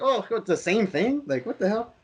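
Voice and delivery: high, incredulous what the hell; exasperated disbelief. Retold or imitated. Fan mocking a repeated plot twist, high disbelief. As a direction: sound baffled and fed up. Recalling reaction to same thing.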